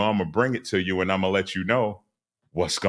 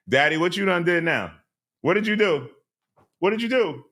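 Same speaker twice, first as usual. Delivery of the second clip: put-on high, prying child asking questions; nosy kid voice; 9 semitones higher than usual. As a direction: play the nosy kid grilling daddy. Kid nosily questioning dad.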